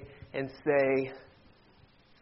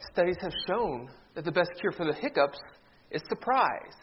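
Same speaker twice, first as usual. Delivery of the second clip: deadpan pharmacist; 5 dB quieter than usual. Acted. Joke: pharmacist's deadpan reply.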